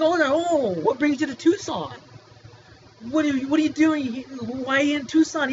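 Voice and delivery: high, loud put-on cheerful questioning; mock sweetness, playing dumb; fake friendly doctor. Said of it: "it's like".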